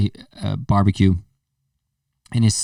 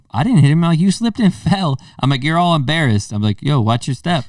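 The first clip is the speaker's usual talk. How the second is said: mock innocent; 5 semitones higher than usual. Mock denial to winded kid.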